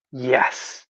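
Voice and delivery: quiet, measured reassurance; gentle confirmation. Retold or imitated. Mom looking up at her son, quietly confirming. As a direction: softly confirm it, leaving a pause after yes. Mother softly confirms who they are.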